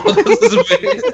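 agudo y lento entre risas; repítelo en falsete riendo; falsete burlón. Pretend. Repeating the name mockingly, laughing. (nombre en falsete entre risas)

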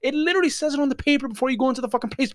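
high-pitched, incredulous tirade; exasperated rant. Retold or imitated. Onlooker's unspoken outburst at the man without ID, exasperated. Imagined outburst at the arguing customer.

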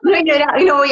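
said through a laugh; laughing denial. Real, not acted. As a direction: laugh while insisting you didn't cry. Denies crying while laughing.

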